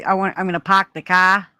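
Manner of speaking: imitated Boston accent with dropped R's; mock a Boston accent. Caller imitating how people from Boston talk, Boston accent. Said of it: "have a bad accent".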